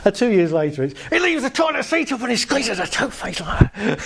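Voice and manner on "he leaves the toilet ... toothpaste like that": irritated complaint. Retold or imitated. Same habit retold, now irritated.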